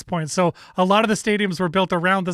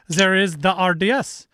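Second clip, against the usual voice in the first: put-on weird French accent. Host plugging the French broadcast in a mock French accent. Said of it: "I don't know why I did that weird accent".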